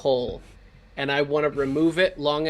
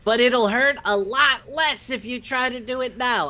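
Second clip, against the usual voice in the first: calling down; 7 semitones higher than usual. Acted. Calls back down the hole.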